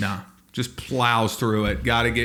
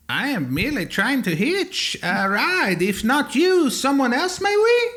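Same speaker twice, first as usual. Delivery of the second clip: high, slow, plaintive robot; formal robot voice climbing higher; polite robot; 11 semitones higher, slower than usual. Acted. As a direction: play a timid robot pleading for a lift. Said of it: "you're getting shaky in your tonality".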